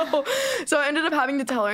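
laughing through the words. Real, not acted. Teenage girl recalling being caught by mom, laughing. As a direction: giggle it out, almost tearful.

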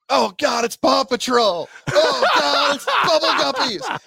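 put-on high, loud excited toddler exclaiming; imitating toddler. Dad imitates his toddler son, high excited kid voice. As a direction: mimic a little kid shouting with glee. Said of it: "Rex will now start saying".

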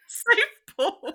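high silly singsong; mock safe pause. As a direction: toss it off like a jingle. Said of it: "We're in safe".

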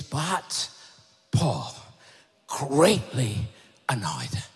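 very low, deliberate scripture reading; weighty, halting read of annoyance; greatly annoyed. A narrator's reading. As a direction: drop the pitch and space out each word. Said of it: "he was frustrated and angry".

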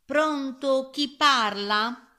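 high, loud, lilting hello; girl answering phone. A narrator's reading. Girl answers the piglet's phone call, lilting. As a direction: pick up with a drawn-out singsong.

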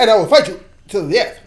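kung fu movie character. Retold or imitated. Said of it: "Kung Fu movies taught you that".

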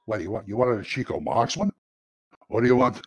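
lightly put-on Italian accent. Shown as a demonstration. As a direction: answer with a hint of Italian-American. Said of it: "Italian accent. Do you have one?".

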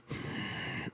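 soft exhale before a retry; long quiet sigh. Real, not acted. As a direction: sigh and regroup. Regrouping after botched bit.

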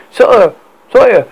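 frantic high shout; panicked soldier yelling. A narrator's reading. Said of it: "burst through the palace doors and yelled".

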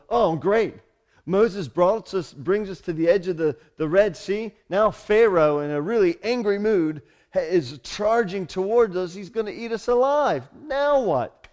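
loud, high, fretful kvetching; panicked complaining crowd. Pretend. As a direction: whine it in rising panic. Israelites complaining at Red Sea.

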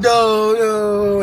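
imitated high kid objection; mock a child's high-pitched protest. Kids objecting to the dads, imitated high protest.

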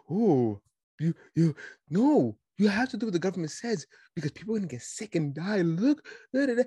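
hammed-up fretting, trailing into nonsense syllables; mock alarm. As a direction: sputter like a panicky rule-follower. Mimics alarmed pro-government critics.

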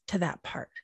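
breathy whispered tag. Real, not acted. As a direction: drop to a whisper. Repeated soft closing phrase.

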